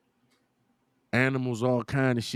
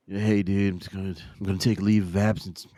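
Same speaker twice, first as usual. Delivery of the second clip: lower, fast, offhand mock dude voice; casual climber; 4 semitones lower than usual. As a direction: toss it off like a weekend hobby. Mocking casual climber quote.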